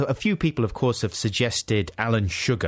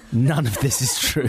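mock official announcement; 3 semitones higher than usual. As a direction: announce it like a public warning. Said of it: "announcement for idiots".

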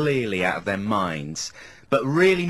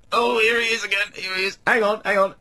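higher-pitched mock excited caller; excited bloke on the phone; 8 semitones higher than usual. Toilet bloke tells his mate the celebrity's back, mock excited. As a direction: imitate a chuffed bloke announcing a celebrity. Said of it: "he's going".

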